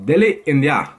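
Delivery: an attempted Indian accent. Vlogger running through city impressions, Indian accent. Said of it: "every time I do the Indian accent".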